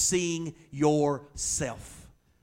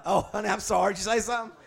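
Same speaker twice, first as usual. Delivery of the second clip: mock innocent husband; 6 semitones higher, 4 dB louder, faster than usual. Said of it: "I'm like".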